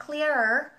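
"clearer" drawn out slowly, the r carried over as clea-rer; linked r sound. Shown as a demonstration. Teacher showing learners the linking, "clearer" slow and joined. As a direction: slowly link the r into the last vowel of "clearer". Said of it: "nối sang".

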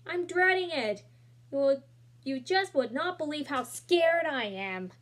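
fretful mother confiding her fear; scared mom. Acted. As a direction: let the mother's dread spill out. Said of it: "she said".

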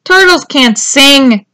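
loud, drawn-out call; katydid's shout. A narrator's reading. Katydid tells Tudley turtles can't sing, shouted. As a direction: shout it out slowly as a scolding katydid. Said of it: "a katydid shouted".

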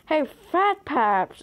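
loud, slow call; loud drawn-out hey. Real, not acted. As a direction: call a friend across the game. Calling out to friend.

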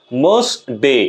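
short মাস্ট, then ডে drawn out; lengthened, stressed ডে closing মাস্ট ডে. Shown as a demonstration. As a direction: stretch ডে after an unstressed মাস্ট. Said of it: "ডে বলতে গিয়ে আমাদেরকে যেমন টেনে বলতে হচ্ছে".

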